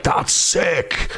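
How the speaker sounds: mock-admiring "that's sick", drawn out slowly; imitating someone who finds it cool. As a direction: stretch it out like approving slang. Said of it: "not in the cool way".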